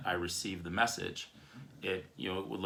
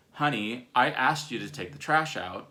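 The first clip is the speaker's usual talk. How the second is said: annoyed reminder, a bit raised and louder; 3 semitones higher, 5 dB louder than usual. Acted. Wife to husband about the forgotten trash, annoyed. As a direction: pointedly repeat the request, mildly irked. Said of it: "you come to me with this annoyed language".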